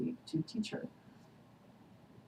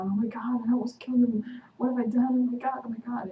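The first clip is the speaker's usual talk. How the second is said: retelling a panic in a raised, higher voice; mock panic, louder and higher, then falling off; freaking out; 6 semitones higher, 5 dB louder than usual. Recapping Elena's horror after nearly killing Matt, in mock panic. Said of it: "Elena's freaking out".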